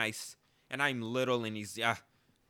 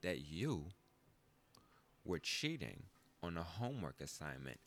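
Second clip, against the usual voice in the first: stern principal; 3 dB louder than usual. Retold or imitated. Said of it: "He said".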